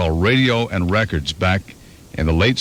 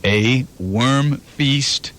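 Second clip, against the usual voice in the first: slow, deliberate quiz read; game-show options read; quiz host reading options; slower than usual. Shown as a demonstration. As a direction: spell out each choice slowly. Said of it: "Which of the following is a real band?".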